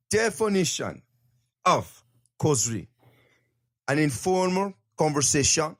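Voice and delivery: mock-grand reading of a definition; odd formal reading voice. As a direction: read the definition in a silly lofty voice. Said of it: "Why am I saying it like that?".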